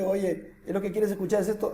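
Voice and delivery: soft, ironic mock reply; ironic prophet. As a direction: tease the king quietly, with irony. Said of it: "Lo dice como decirle ... sentido irónico". (el profeta responde al rey con ironía suave)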